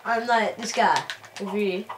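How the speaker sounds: put-on London chav accent; fake chav voice. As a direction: talk like a chav. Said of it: "Doing the fake chav voice".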